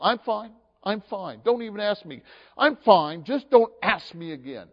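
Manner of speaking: mock exasperated "I'm fine"; irritated I'm fine. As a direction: snap it back like someone who won't be asked.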